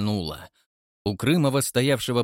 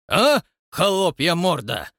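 menacing insult; 7 semitones higher, 5 dB louder, slower than usual. A narrator's reading. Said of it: "грозно ответил".

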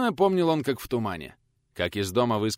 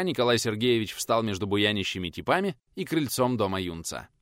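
plain reading voice

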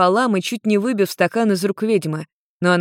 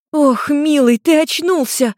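high, loud delighted cry; overjoyed; 9 semitones higher, 3 dB louder, slower than usual. A narrator's reading. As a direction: greet him with bursting relief. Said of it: "обрадовалась она".

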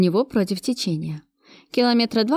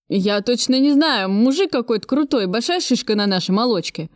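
tearful; 3 semitones higher than usual. Acted. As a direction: whimper it out, lightly voiced. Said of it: "плаксиво проговорил он".

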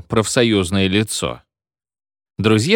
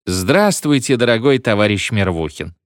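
sinister voice. Acted. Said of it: "сказал зловещим голосом".

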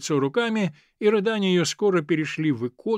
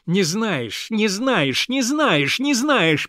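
each repeat higher and louder, building to a shout; angry father, growing louder; building repetition; 6 semitones higher, 6 dB louder, much slower than usual. Acted. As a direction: hammer the words as you shake his ear. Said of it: "повторял он с каждым словом".

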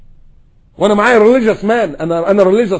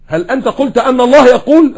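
incredulous retelling; 7 semitones higher, 8 dB louder than usual. Retold or imitated. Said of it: "إيه ده؟".

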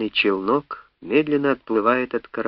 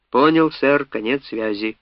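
offended; 2 semitones higher than usual. Acted. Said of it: "старался звучать обиженно".

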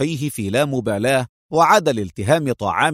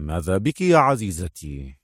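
low, gentle smiling question; smiling concern; 6 semitones lower than usual. A narrator's reading. Agent asking his silent partner what's wrong, low and smiling. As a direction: ask fondly in a lowered voice. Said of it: "سألها أدهم مبتسما".

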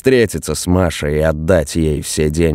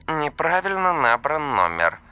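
flat automated phone message, softer; robotic answering-machine voice; monotone recorded voice; 9 semitones higher, 6 dB quieter than usual. A narrator's reading. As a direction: read it like an operator recording. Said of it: "прозвучал монотонный голос".

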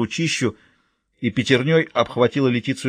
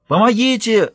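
much higher, loud cry for help; desperate high shout; girl screaming for help; 11 semitones higher, 5 dB louder, slower than usual. Acted. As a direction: scream it from the swamp. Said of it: "закричала и Летиция".

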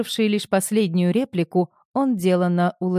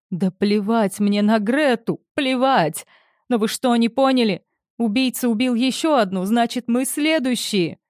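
panicked outburst; 5 semitones higher than usual. Acted. Panicked outburst after crying.

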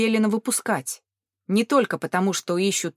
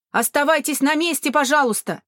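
shout; 6 semitones higher, 4 dB louder than usual. A narrator's reading. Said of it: "кричал один из офицеров".

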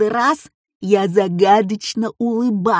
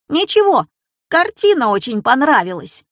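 evasive; 4 semitones higher than usual. Acted. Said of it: "уклончиво ответил я".

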